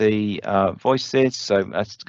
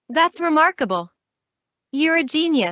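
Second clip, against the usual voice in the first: upbeat, cheerful tone. Demonstrating a voice sample labeled as the cheerful one, cheerful. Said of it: "It's cheerful one".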